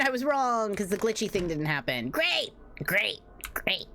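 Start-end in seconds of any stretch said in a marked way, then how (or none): 2.1-3.9 sarcastic great. Real, not acted. Sarcastic reaction to game failure.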